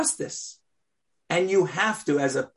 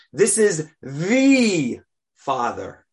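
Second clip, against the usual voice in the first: mild mock proclamation; 4 dB louder, much slower than usual. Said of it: "the text is screaming at us".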